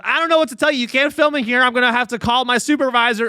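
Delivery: mock polite office receptionist; secretary voice. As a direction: politely shoo him out. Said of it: "she goes".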